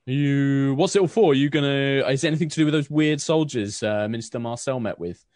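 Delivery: put-on young man bagging leftovers for the Baroness, fast; sulky young man. Aaron asks about soldiers.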